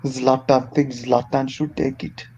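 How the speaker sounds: slow, bad attempt at a Swedish accent; a clumsy Swedish accent, dragged out. Friend asked for his Zlatan impression, bad Swedish accent. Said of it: "Very bad accent".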